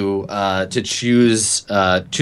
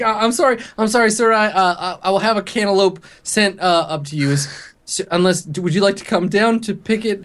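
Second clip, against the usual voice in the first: much higher, stammering scared apology; grovel, voice pitched up in fear; panicked apology; 9 semitones higher than usual. Acted. Desk clerk begging the angry guest's pardon, high and scared.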